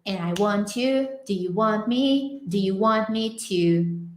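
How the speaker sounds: "want" slowly, T hidden, words linked; "want you" said slowly, T kept hidden; slow song line. Shown as a demonstration. Teacher reads the song line slowly to show the sound. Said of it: "agora o som ficou".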